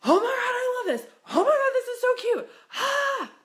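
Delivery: half-laughing, half-crying squeal of joy; yelping with delight. Retold or imitated. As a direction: shriek it like you just found the perfect top in a store. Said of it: "you hear someone yelping out".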